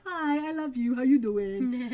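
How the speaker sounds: cute cat voice. Retold or imitated. Voicing the cat turning sweet.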